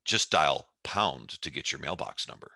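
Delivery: lightly voiced chat-line recording, a little low; a hint of recorded hotline voice; imitated automated greeting. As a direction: lightly mimic a Love Line phone greeting. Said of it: "it went something like this".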